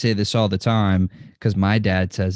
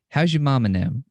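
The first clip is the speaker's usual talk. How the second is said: Southern greeting; 3 semitones higher, faster than usual. Retold or imitated. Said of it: "that's what people say down here".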